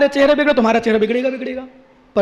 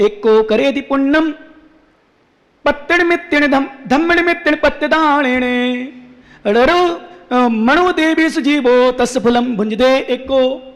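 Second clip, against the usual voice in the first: measured, intoned scripture recitation; verse recitation; slower than usual. Acted. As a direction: recite the sacred verse with drawn-out endings. (गाथा का सस्वर पाठ)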